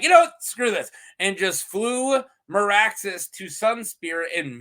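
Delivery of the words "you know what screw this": high, fed-up mock exasperation; exasperated. Queen giving up on the siege, mock exasperated. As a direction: toss it off like a queen losing patience. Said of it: "Queen Rhaenys just, like".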